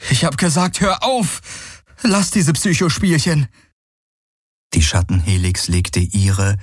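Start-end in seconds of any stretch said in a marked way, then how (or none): 0.1-3.5 high, agitated demand; angry outburst. Acted. Man tells illusion to quit mind games, angrily. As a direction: insist she stop, voice pitched up. Galen orders illusion to stop.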